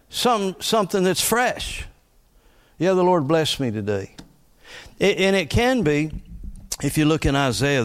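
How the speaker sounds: ordinary talk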